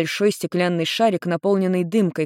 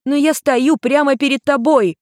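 put-on higher, louder girl's protest; 9 semitones higher, 5 dB louder than usual. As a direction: insist she is right here. Girl protests.

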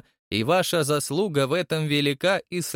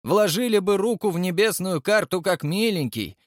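high-pitched, heated scolding; angry tirade; 7 semitones higher than usual. A narrator's reading. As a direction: berate him in an outraged, high voice. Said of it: "в гневе председатель". (гневная отповедь на высоких тонах)

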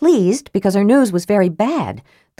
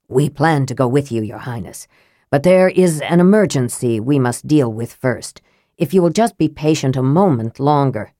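Raistlin's low placating voice; 4 semitones lower than usual. Acted. Raistlin's voice in the story.

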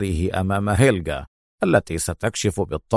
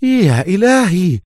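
loud cry; 11 semitones higher than usual. A narrator's reading. Officer realising the spy wants a plane, shouting. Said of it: "وصاح بصوت عال".

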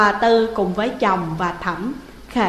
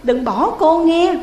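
mild tearful pleading, rising higher at the end; whimpering plea; 3 semitones higher, 3 dB louder than usual. Acted. Ghost Hiền tearfully begging Thẩm not to leave. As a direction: beg him not to leave, near tears. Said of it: "Cô Hiền khóc lóc".

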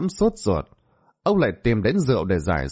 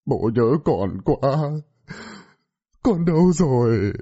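wailing father; 3 semitones higher than usual. A narrator's reading. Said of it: "gào khóc".

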